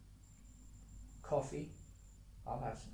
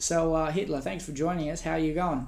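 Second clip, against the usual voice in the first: laughing, hammy interviewer voice; mock talk show host; 3 semitones higher, 8 dB louder than usual. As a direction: play a cheesy radio host. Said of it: "when we interview Hitler".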